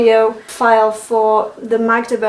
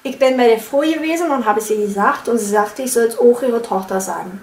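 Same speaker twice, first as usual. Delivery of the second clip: Berlin accent. Shown as a demonstration. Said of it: "I'm gonna try again".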